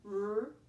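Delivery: "R-E-P" as three separate sounds, rr, eh, puh; sounded out. Shown as a demonstration. Teacher breaks first syllable down, "R-E-P" sound by sound. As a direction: sound out "R-E-P" by phonics, not letter names, pausing between sounds. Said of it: "The first syllable is rep".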